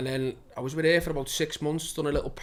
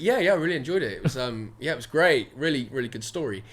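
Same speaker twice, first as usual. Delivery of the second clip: lightly put-on posh politeness; posh audition voice, mildly hammed; imitated posh accent. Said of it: "talking like I was posh".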